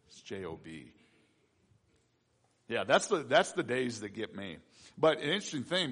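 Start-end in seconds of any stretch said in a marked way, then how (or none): 0.1-0.9 hushed aside. Acted. After a flopped Job joke, a hushed aside. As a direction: lower and much softer, tossed under the breath.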